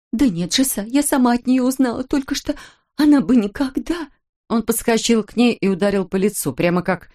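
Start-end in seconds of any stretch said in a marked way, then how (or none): 0.1-4.1 higher, frantic denial; a wife begging to be believed; desperate denial. Acted.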